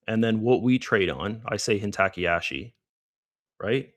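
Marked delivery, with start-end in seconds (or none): 1.8-2.7 Hintakiyashi mispronounced as hin-tacky-ASH-ee; wrong pronunciation. Shown as a demonstration. Trader showing viewers his own habit, wrong pronunciation. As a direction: say Hintakiyashi casually with a tack in it, hin-TACK-ee-ashy. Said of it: "I just pronounce it wrong".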